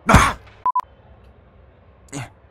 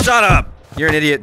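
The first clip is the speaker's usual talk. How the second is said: shout; 2 semitones higher, 4 dB louder, faster than usual. Acted. Yelling at game character.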